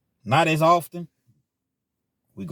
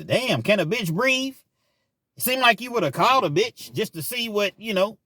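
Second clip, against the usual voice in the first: imitating her; 8 semitones higher than usual. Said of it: "that's how some women talk to each other".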